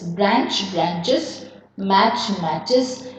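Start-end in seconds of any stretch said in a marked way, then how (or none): 0.0-1.5 "branches" with the ending said as a clear iz; correct plural. Shown as a demonstration. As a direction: say "branches" with an extra syllable at the end, BRAN-chiz. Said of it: "What you say is na".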